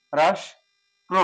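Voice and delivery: রাষ্ট্র drawn out very slowly with "sh"; very slow demo. Shown as a demonstration. Teacher stretching রাষ্ট্র so the class hears each sound, very slowly. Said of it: "তালব্য স উচ্চারণ করি".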